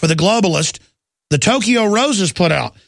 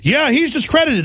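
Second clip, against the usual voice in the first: a higher, sarcastic "Yeah, he's discredited"; 7 semitones higher than usual. Retold or imitated. Host mocking media talking point, in sarcastic echo. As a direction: throw "discredited" back with scorn. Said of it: "sarcastic echo of media line".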